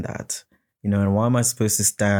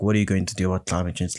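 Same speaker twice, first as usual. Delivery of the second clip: rushed question; much faster than usual. Retold or imitated. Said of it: "No, like".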